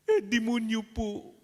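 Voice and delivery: put-on boy telling the priest his father's name, child voice; innocent child voice. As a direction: say it like a guileless small boy.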